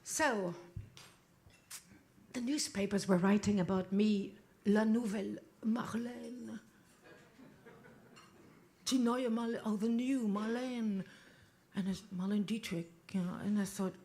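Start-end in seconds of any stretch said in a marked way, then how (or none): 4.6-11.0 breathy whisper of the French title; whispering the press nickname; whispered headline. Acted. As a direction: hush it like a secret. Newspapers hailing her, said reverently.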